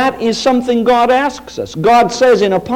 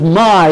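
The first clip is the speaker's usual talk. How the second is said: "my" pressed out louder; emphatic my; 3 dB louder than usual. Shown as a demonstration. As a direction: lean hard on "my".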